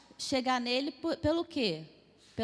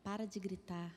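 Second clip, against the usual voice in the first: very soft, lowered plea; imitating phlegmatic father; 5 semitones lower, 10 dB quieter than usual. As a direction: hush it right down, pitch dropped. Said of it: "Aí ele só faz assim".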